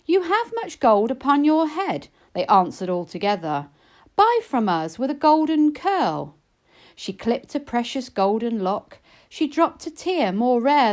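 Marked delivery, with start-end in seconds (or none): 0.1-2.1 a hint of sly goblins; goblin chorus. A narrator's reading. Goblins answering together. 4.2-6.3 higher, louder sly goblin voice; a hint of sly goblins; goblin chorus. A narrator's reading. Goblins tempting.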